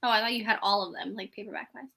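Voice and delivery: ordinary delivery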